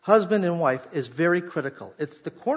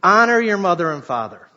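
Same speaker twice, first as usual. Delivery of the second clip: "Honor your mother and father" said louder, falling firmly; louder proclamation; 7 dB louder than usual. Shown as a demonstration. Pastor booms the commandment to kids and teens, louder. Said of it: "I'm sorry, I said it".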